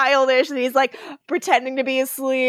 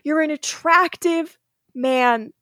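mock mirror pep talk. The speaker coaching himself in the mirror, mock pep talk. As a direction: pump yourself up in the mirror, half joking. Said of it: "he was like".

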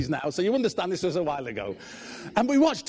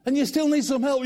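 calling out; 6 semitones higher, 5 dB louder than usual. Retold or imitated. Husband calling into dark.

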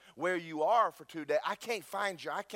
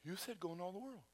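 meek protest; 2 semitones higher, 13 dB quieter than usual. Retold or imitated. Preacher arguing back to God, meekly protesting. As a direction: protest quietly, pleading your case.

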